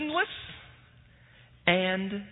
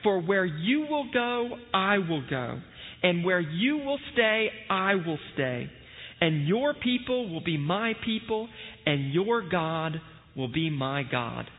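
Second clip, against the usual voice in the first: formal liturgical reading voice; scripture reading. Acted. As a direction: read the passage with solemn care. Reads scripture aloud at service.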